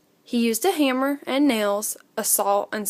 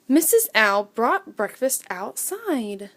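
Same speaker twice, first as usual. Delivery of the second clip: plain reading voice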